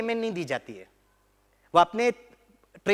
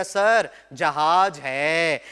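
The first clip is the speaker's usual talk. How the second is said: cadet's answer; 4 dB louder, much slower than usual. Retold or imitated. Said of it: "एक cadet खड़े होकर कहता".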